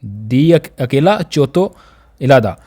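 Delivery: दिचोत्तो drawn out syllable by syllable; a teacher slowing दिचोत्तो down; slow and careful. Shown as a demonstration. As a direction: spell out दिचोत्तो slowly for learners. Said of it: "आपने क्या करना है".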